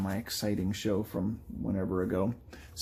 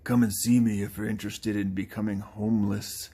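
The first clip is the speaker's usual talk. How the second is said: put-on game townsperson voice; lightly voiced video game character. Game character invites the player over, put-on character voice. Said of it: "I'm trying to do these in the voices".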